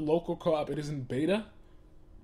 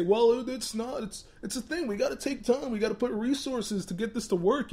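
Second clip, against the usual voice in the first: mock corporate excuse-making; 7 semitones higher than usual. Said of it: "Don't sit here and say".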